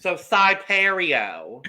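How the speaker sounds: slow, high, hammy Italian "Sipario"; mock Italian accent. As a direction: tease with a drawn-out Italian accent. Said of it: "No, I'm not that bad".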